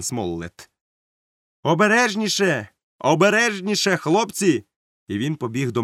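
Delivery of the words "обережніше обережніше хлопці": high, urgent calling out; called warning. A narrator's reading. Captain warns sailors handling powder, calling out. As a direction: call a warning across the deck.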